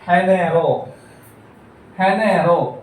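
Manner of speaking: "ഹെനേറോ" with G as an h; soft Spanish G. Shown as a demonstration. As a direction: start "ഹെനേറോ" on an h sound. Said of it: "രണ്ട് pronunciation വരുന്നുണ്ട്". ("ഹെനേറോ" ഹ ശബ്ദത്തിൽ)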